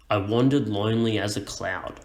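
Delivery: "I wandered lonely as a cloud" recited with stress on WAN, LONE, AS, CLOUD; measured verse reading of "I wandered lonely as a cloud"; reciting. Shown as a demonstration. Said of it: "recite the line out loud".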